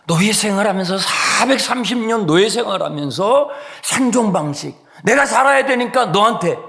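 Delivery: high, loud, insistent preaching; full-force preaching. Real, not acted. Preacher denounces complaint as a slave's survival habit, full-force preaching. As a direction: drive each phrase home at a high, loud pitch.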